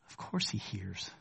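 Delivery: breathy whisper, slow; whispered aside. Acted. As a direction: lean in and whisper the certainty. Whispered aside answering doubt.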